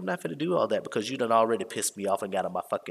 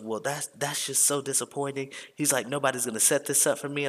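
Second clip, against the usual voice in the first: higher-pitched mock disappointment; imitated complaint, pitched up; disappointed guest; 5 semitones higher than usual. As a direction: lightly mimic a let-down hotel guest.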